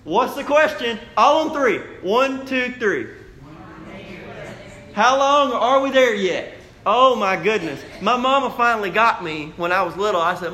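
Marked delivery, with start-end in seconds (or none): 4.9-6.5 put-on whiny kids. Kids whining in back seat.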